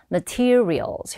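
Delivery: materials stressed on the second syllable, ma-TE-rials. Shown as a demonstration. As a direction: lean on TE in materials. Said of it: "뒤에 이음절 강세를 넣으셔서". (materials의 둘째 음절에 강세)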